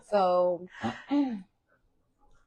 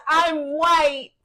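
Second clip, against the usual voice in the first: higher, louder mock wail; imitated crying child; 7 semitones higher, 7 dB louder than usual. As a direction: imitate a child's tearful protest. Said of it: "She was crying".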